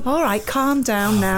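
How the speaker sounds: low, slow calming down; placating. Acted. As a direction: talk the diva down. Host soothes the ranting guest.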